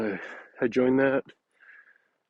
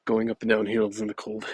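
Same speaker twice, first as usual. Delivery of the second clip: breathless from walking uphill; panting between phrases; out of breath; 4 dB louder than usual. Real, not acted. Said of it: "Sorry, I'm out of breath".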